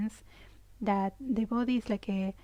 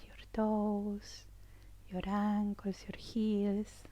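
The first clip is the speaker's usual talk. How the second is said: soft, unhurried body-scan voice; hushed, soothing meditation cues; guided meditation; 6 dB quieter than usual. Real, not acted. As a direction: guide attention gently, phrase by phrase.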